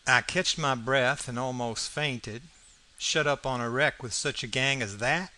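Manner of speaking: plain reading voice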